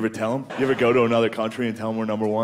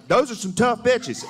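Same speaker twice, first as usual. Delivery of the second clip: high, slow, impressed drawl; grudging respect from a Southern fan; a higher, slower awed local; impressed Alabama local; 9 semitones higher than usual. Retold or imitated.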